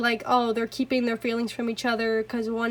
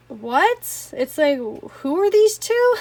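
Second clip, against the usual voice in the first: slow, louder, higher puzzled question; mock confused; 3 semitones higher, 4 dB louder, much slower than usual. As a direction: ask it as if truly baffled by two strangers. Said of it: "Well, not, like".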